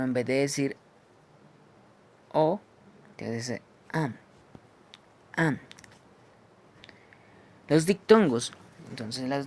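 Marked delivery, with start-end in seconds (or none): 3.9-4.1 "am" with an open O shaped like A; O opened toward A. Shown as a demonstration. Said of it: "la articulación es como una A". 5.4-5.6 "am" with an open O shaped like A; O opened toward A. Shown as a demonstration. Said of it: "la articulación es como una A".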